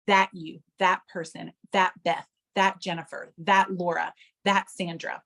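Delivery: each "that" leaned on, falling phrases; measured roll call, emphatic "that" each time; stress on THAT. Shown as a demonstration. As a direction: list them separately, pointing with "that". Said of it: "put the emphasis on a different word".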